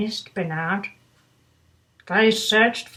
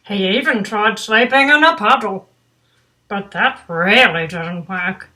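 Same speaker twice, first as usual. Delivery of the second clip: put-on reading to children. A narrator's reading. Reads picture book aloud.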